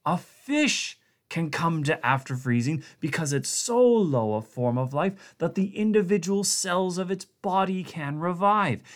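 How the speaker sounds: high, pleading rush; frantic scientist. A narrator's reading. Blair urgently explaining to Connacht, frantic and high. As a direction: explain desperately before they act.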